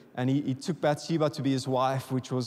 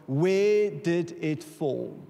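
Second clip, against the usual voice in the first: slow, drawn-out question; much slower than usual. Retold or imitated. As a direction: stretch each word of Where did it fall?, very slow. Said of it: "Elisha says to the prophet".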